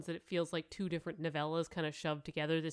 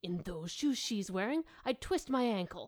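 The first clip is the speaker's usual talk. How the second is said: gritting her teeth; 3 semitones higher than usual. Acted. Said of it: "gritting her teeth".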